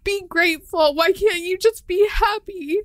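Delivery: mad at herself. Retold or imitated. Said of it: "I would get so mad".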